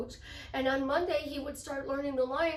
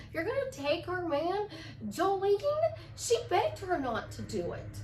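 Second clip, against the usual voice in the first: playful, confident role-play; self-assured boasting. Acted. Woman playing irresistible Jolene to herself, smugly delighted. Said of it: "You do this instead".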